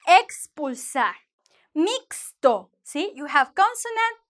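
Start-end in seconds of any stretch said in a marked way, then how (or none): 0.1-1.1 "Expulsar" slow and careful, with a clear KS; slow model pronunciation of "Expulsar". Shown as a demonstration. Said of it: "you're going to get the sound". 1.8-2.7 "Mixto" with a distinct KS before the T; careful model pronunciation of "Mixto". Shown as a demonstration. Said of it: "you're going to get the sound".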